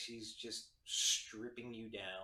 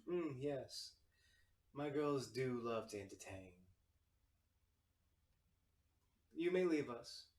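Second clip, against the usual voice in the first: lightly voiced feminine tiefling host; a hint of a gracious madam; soft feminine voice. Tiefling host dismisses her girls, lightly feminine and poised. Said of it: "you hear this soft feminine voice".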